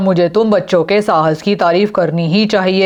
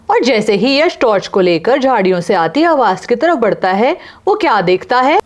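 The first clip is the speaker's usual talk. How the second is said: story narration; 4 semitones higher than usual. A narrator's reading.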